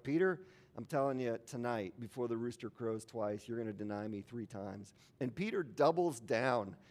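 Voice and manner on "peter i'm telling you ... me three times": gentle warning. Acted. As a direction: tell him tenderly, no rebuke in it. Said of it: "I think Jesus doesn't say it like that".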